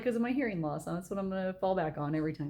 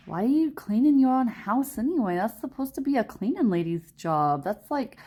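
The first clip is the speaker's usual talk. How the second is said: mock New York girlfriend, starting higher; imitated city accent; 5 semitones higher, 3 dB louder than usual. Girlfriend questioning his cleaning, imitated New York accent. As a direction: challenge him in a light New York accent. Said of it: "And she talks like that too".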